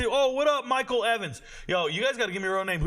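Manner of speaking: normal talking voice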